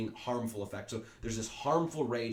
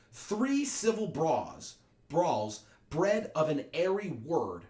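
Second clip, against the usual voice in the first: very slow, high, weighty pronouncement; grave slow decree; 5 semitones higher, 5 dB louder, much slower than usual. Acted. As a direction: draw each word out like a verdict. Prince condemns feud, slowly.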